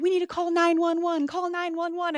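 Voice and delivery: high, urgent panicked pleading; alarmed and pitched high, urging help; family panicking over the fainted girl, high and alarmed. Retold or imitated.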